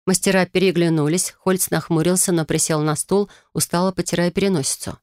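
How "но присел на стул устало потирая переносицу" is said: plain reading voice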